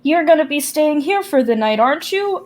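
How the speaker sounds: high, eager coaxing lift; sweet, happy grandma. Acted. Grandma happy to see the visitors, sweet and high. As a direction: ask it fondly, pitching up to the tag question. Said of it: "sweet and happy to see you all".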